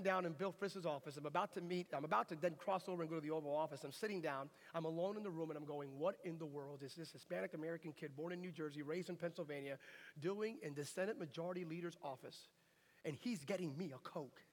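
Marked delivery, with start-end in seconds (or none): 6.0-14.4 softer, understated inner disbelief; wondering to himself. Retold or imitated. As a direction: think aloud quietly in mild amazement. Acted private thought, alone in office.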